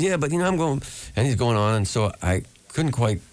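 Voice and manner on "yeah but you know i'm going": much higher, playful mock young folk singer; imitating a famous folk singer. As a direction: spin a tall tale in a high put-on voice. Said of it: "He says".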